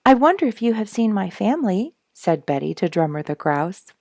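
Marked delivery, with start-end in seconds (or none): 0.1-2.0 louder, higher re-read of the line. Shown as a demonstration. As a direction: read it again with more voice. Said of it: "That's the very next line I'm supposed to read".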